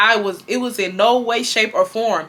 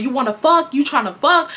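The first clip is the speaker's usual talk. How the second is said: mild mock yell, higher pitched; mother's retold yelling; 6 semitones higher than usual. Mom accusing her daughter during a whooping, mock yelling. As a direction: imitate an angry parent yelling accusations. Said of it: "She yelling".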